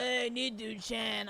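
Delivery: drawn-out impression of a friend; slow, stretched greeting in mimicry. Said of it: "don't wanna do my usual".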